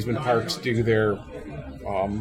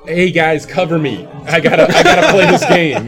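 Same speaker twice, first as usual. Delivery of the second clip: excited gamer call; 3 semitones higher, 6 dB louder than usual. Retold or imitated. Player calling out to teammates.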